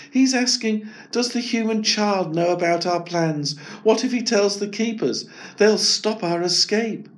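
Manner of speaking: Maya translating. Acted. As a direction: relay the kangaroo's fears. Maya relaying kangaroo.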